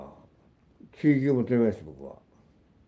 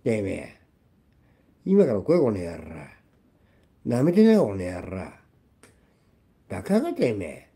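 screaming rage; 5 dB louder than usual. Real, not acted. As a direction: scream a challenge in genuine fury. Continuing furious rant. (本気でブチ切れて叫ぶ)

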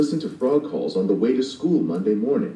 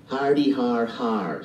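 sarcastic fake laugh; 2 semitones higher, slower than usual. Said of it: "said Stink".

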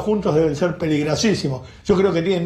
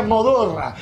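street vendor cry; 3 semitones higher, slower than usual. Retold or imitated. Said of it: "decía".

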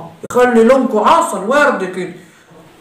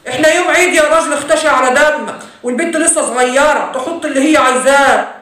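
quarreling parents; 3 semitones higher than usual. Acted. Father and mother quarrel.

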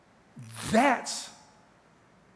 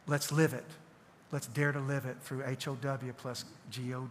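softer, measured prayer voice; closing prayer; 2 semitones lower, 3 dB quieter than usual. Acted. Pastor praying over the congregation at the end, in a soft, measured voice. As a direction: bless them gently as you close.

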